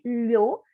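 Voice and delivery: "Lho" with the LH as a single palatal sound; one LH sound. Shown as a demonstration. Teacher to pupils, sounding out the LH. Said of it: "ele tem um som só".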